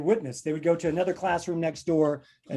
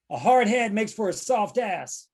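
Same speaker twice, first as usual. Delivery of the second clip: slow, higher-pitched saying; parent's warning; 4 semitones higher than usual. Acted. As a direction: deliver it as a drawn-out parental warning.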